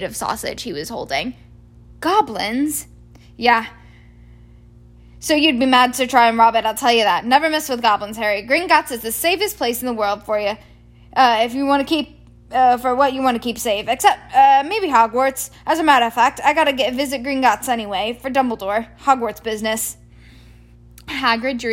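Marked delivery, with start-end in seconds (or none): 2.0-2.9 high startled question; surprised. Acted. Harry astonished. 3.4-20.0 loud, hearty giant voice; big booming Hagrid; giant's voice. Acted.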